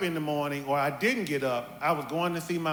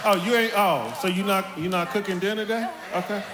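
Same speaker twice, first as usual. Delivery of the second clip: mock innocent question with a threat; mama's loaded question; 2 semitones higher than usual. Son imitating mama asking about dinner, mock innocent. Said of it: "Mama would ask you".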